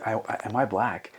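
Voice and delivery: softly imitated child's question; hushed, hesitant small-child voice; young daughter. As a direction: lightly voice a little girl asking Dad. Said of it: "And she goes".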